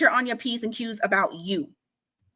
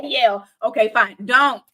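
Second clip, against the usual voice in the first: dismissive brush-off; 5 dB louder than usual. Shown as a demonstration. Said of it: "Just say".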